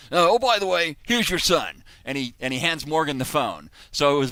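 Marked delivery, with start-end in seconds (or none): 0.1-1.8 high, loud mock Australian; bad Crocodile Dundee accent. Shannon hands the phone over to the son, bad Australian accent. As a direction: toss it off in hammed-up Aussie. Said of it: "this is my very bad Crocodile Dundee impression".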